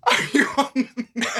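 laughing pickup line. Shown as a demonstration. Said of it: "That is my new pickup line".

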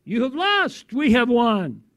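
high, ringing proclamation with falling endings; voice in lion's roar. Acted. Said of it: "And I hear the voice".

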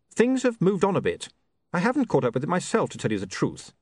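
apologetic and caught out; flustered young man. Acted. William explains.

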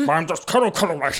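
colonel voice through laughter; half-laughing officer voice; military officer. Acted. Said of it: "doing the Colonel Colony voice".

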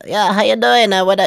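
high-pitched, loud imitation Asian accent; put-on Asian accent. Scam baiter greeting the caller, mock Asian accent. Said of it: "I did, like, an Asian accent".

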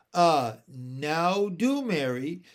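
slow, drawn-out coaxing; persuasive. Acted. Uncle coaxing Mary Poppins, understated persuasive. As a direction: coax her gently. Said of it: "said Mister Wig persuasively".

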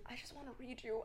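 soft, hushed mock invitation; imagined tarot reader. Imagined reader approaching her at work, hushed.

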